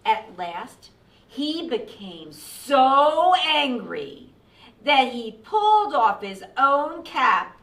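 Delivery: measured read-aloud with deliberate pauses; storytime narration. A narrator's reading. Reading the cap peddler's tale to children, expressive storytime voice. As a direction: tell the story to young listeners.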